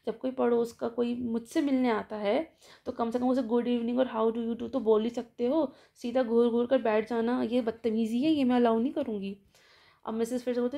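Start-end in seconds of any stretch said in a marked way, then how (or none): 0.1-9.4 stern scolding. Retold or imitated. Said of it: "वो बीच में बोल देती".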